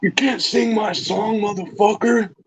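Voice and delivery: mock copyright owner. Joins mocking copyright owner.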